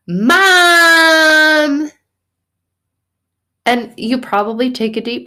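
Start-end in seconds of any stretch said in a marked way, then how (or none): 0.1-1.9 long, high, drawn-out scream; daughter's scream. Retold or imitated. Daughter screams for her mother, high long scream. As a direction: scream for your mother like a child. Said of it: "Like my daughter screamed".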